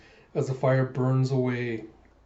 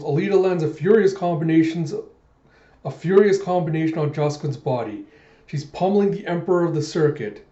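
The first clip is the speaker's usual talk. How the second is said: fight announcer; 3 semitones higher, 4 dB louder than usual. Retold or imitated. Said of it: "the announcer goes".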